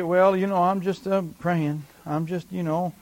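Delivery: hesitant, halting mock timidity. Preacher imitating timid Christians praying, timidly. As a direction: fumble along as an unsure believer.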